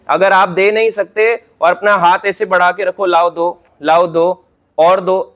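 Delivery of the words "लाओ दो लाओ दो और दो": greedy taker. Retold or imitated.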